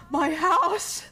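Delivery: mock lament broken by laughter; rising, laughing wail over a loss; laughing dismay. Owner learning the fence is gone, laughing dismay.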